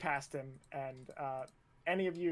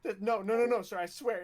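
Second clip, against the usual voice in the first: raised, stammering denial; very uncomfortable; 4 semitones higher, 4 dB louder than usual. Acted. Recruit swears to the instructor, very uncomfortable. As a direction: plead innocence in a flustered higher voice. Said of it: "Jordan clearly getting very uncomfortable".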